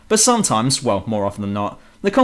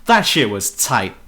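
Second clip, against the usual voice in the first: mock stereotype voice; 2 semitones lower, slower than usual. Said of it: "big burly black bloke who says things like".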